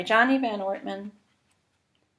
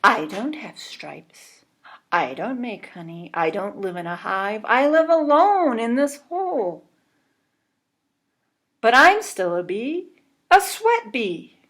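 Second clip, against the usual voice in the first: lonely bee rising to a high, proud finish; sweat bee voice; 3 semitones higher, 5 dB louder than usual. Acted. Sweat bee character speaks.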